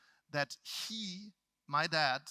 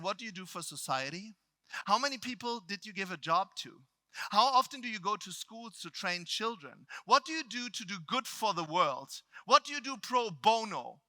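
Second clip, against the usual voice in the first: building from firm to louder demands; stern interrogation; 4 semitones higher, 4 dB louder than usual. Retold or imitated. Trainer grilling speaker about giving to society, stern interrogation. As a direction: fire off accusing questions, each more pressing. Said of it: "He yells at me".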